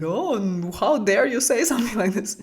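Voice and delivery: laughing through a mock-indignant how dare you; hammed-up outrage, breaking into laughter; mock offended, laughing. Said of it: "And I would be like".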